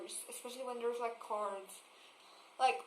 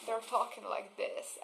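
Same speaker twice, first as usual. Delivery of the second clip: vocal fry; 5 dB quieter than usual. Shown as a demonstration. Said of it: "use vocal fry".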